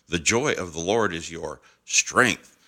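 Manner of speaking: "strength" set apart at the end; stress on STRENGTH. Shown as a demonstration. Preacher showing same phrase meaning something different, stress on "strength". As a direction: hold back, then land on "strength". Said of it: "it's saying something different".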